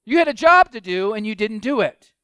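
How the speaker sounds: indignant leaders confronting their men, pressing hard; demanding Pharisees. Acted. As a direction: scold the officers for failing. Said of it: "the question that the Pharisees have is".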